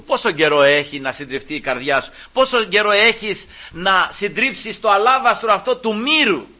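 preacher driving the question home, rising at the end; impassioned preaching. Acted. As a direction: build to a forceful, challenging question.

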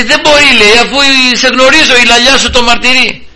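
high, insistent accusing voice; accusing servant. Retold or imitated. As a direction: press him, you know he was there. Servant confronts Peter, acted quarrel. (ψηλή, επίμονη κατηγορία υπηρέτριας)

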